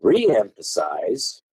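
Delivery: "reemphasize" drawn out slowly; stretched word. Shown as a demonstration. Teacher slowing down to flag the word, drawn out. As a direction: draw out "reemphasize" at half speed. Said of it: "listen to the words as I".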